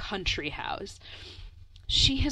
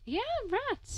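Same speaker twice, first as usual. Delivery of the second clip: disgusted; 7 dB quieter than usual. Real, not acted. Reacting to talk of rats.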